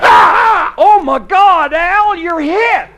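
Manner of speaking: high, loud cry of alarm; hammed-up panic for a wounded friend; horrified cry. Companion sees Al hit by arrow.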